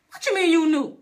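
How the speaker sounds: loud, high-pitched astonished question; shocked disbelief. Retold or imitated. Grandchild hearing grandma already knew, shocked. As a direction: burst out incredulous.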